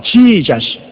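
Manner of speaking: 지저스 with a stretched first syllable, JEE-jus; American pronunciation. Shown as a demonstration. Preacher mocking foreign versions of the name, drawn-out English 지저스. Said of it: "저, 미국말은 지저스".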